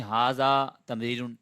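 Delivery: ھذا تمرین spelled out slowly, each word distinct; slow, careful demo for students; slow model sentence. Shown as a demonstration. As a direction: read it slowly like a teacher modelling Arabic. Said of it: "آپ یوں بھی کہہ سکتے ہیں".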